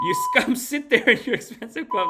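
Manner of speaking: high, loud mock tirade; mimicked angry rant. Streamer mimicking the Wagner guy at the oligarchs, mock-angry shout. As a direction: imitate a furious commander shouting.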